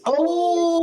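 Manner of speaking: high, loud, drawn-out exclamation; high-pitched wail of astonishment; real shocked outburst. Real, not acted. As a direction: cry out in disbelief, stretching it. Shock at dice roll.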